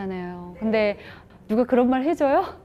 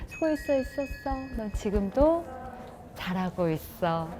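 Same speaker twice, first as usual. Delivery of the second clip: tender to self; 7 dB quieter than usual. Shown as a demonstration. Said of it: "내가 나한테 한번 해줘 볼까요".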